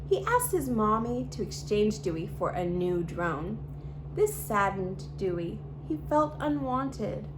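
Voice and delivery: put-on lively read-aloud storytelling for kids; storybook reading. A narrator's reading. YouTube host reading a picture book to children, bright storytelling. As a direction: read the story to little viewers, expressive and clear.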